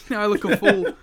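laughing through the words. Real, not acted. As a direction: giggle it out. Laughing at failed joke.

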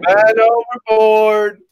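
high, loud, slow alarm cry; man overboard shout. Pretend. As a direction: shout it like a sailor in panic. Calling out as joke.

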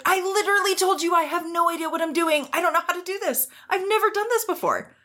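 high, pleading and exasperated; exasperated high retort. Retold or imitated. Sixteen-year-old telling her boss she never knew how. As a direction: plead it high, at the end of your rope. Retelling a frustrated reply to boss.

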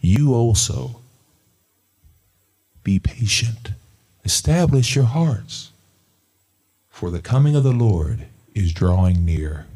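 loud, firm scripture repeat. Shown as a demonstration. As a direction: drive the verse home. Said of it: "read that one more time".

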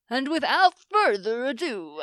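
announcer voice. Shown as a demonstration. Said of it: "you have an announcer voice".

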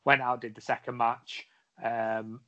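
usual speaking voice

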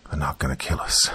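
low, soft reassurance; hushed, steadying tone; reassuring. A narrator's reading. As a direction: quietly reassure a frightened child. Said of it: "did his best to assure his daughter".

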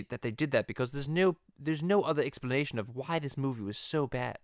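lightly voiced precise cartoon character; a hint of a fussy cartoon commentator; Stewie. Stewie explaining to Peter why the movie failed, cartoon voice. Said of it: "the Stewie and Peter podcast".

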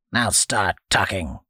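flat, creaky command, NOW falling; creaky old man saying "Now start talking" with a falling NOW; old man's order. Acted. Old man orders boy, creaky demand.

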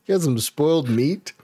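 high, mocking disbelief; mock-incredulous questioning. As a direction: raise the pitch, poke at the excuse. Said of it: "I was like".

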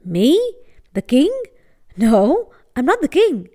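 surprised, flustered denial; abashed. Acted. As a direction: caught off guard, a bit embarrassed. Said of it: "The young man looked abashed".

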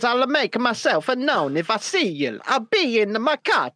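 light mock Italian accent. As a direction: read it in a hammy Italian accent. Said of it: "translating in the Italian accent".

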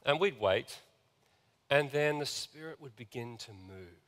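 usual speaking voice

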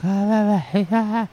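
mock delirious babble; talking in gibberish. Storyteller imitating the woman babbling with weird hand movements, mock gibberish. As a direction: imitate meaningless babbled syllables. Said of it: "started talking in gibberish".

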